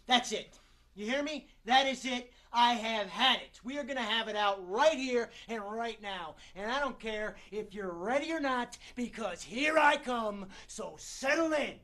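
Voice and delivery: fired-up, emphatic challenge; fed-up confrontation. Acted. Actor confronting the one who wronged him, fed up and combative. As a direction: have it out with them, punching key words. Picking a fight in monologue.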